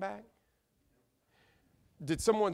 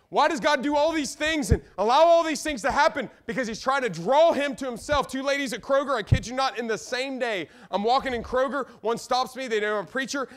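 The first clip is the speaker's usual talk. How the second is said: raised, driving pulpit voice; animated preacher pressing the point home; fervent preaching; 9 semitones higher, 9 dB louder than usual. Acted. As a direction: open high and loud, then ease into storytelling. Preaches at full force.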